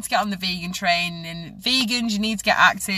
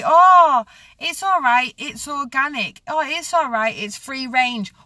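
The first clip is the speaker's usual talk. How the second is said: high, sing-song mock of a smug shopper; mocking quote; 4 semitones higher, 4 dB louder, slower than usual. A ranting vlogger mimics shoppers who excuse buying free range. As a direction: parrot the excuse in a higher, airy voice. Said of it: "so you can say".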